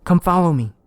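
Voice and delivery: high, loud eerie call; Oak luring. Acted. Oak beckoning the detective from the game, eerie and high. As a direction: beckon him like a phantom. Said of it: "said Oak".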